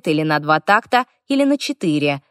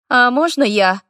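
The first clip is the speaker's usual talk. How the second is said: put-on eager boy; 6 semitones higher, 4 dB louder than usual.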